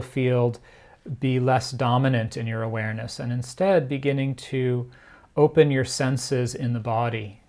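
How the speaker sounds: measured meditation guiding with long pauses; guided meditation. Real, not acted. Teacher guiding listeners to turn their attention inwards, unhurried meditation delivery. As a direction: ease them into stillness, phrase by phrase.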